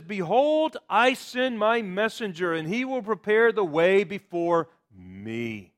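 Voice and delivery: "me" at the end of "before me" leaned on and held; stress on me. Shown as a demonstration. Preacher quoting Malachi to his congregation, stressing me. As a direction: land hard on the final "me". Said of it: "I emphasize that word "me".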